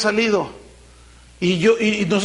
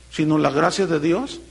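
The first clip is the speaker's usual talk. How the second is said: ordinary talk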